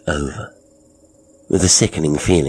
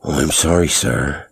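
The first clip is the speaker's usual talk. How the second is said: lorry driver voice. Acted. Driver character voice.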